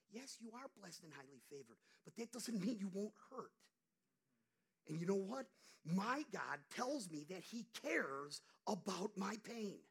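usual speaking voice

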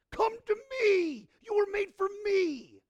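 preacher voicing God's call, high and loud. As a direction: cry out the invitation. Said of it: "He's saying".

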